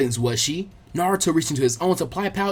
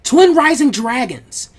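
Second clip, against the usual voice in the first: high, loud, slow technique call; battle cry; 7 semitones higher, 7 dB louder, slower than usual. Acted. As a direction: proclaim the attack, stretching every word. Ninja announcing her technique.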